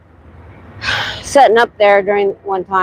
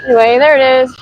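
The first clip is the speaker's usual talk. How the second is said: trembling as she talks; shaking voice; 5 semitones higher, 3 dB louder, faster than usual. Real, not acted. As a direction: voice shaky from shivering. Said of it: "Sorry I'm shaking so much".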